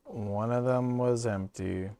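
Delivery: put-on slow stab at an Aussie accent; attempted Aussie accent. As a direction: try to hold an Aussie accent. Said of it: "I held it there that time".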